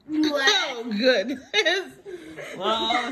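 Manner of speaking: high, loud burst of laughter; giggling. Real, not acted. Mom cracking up.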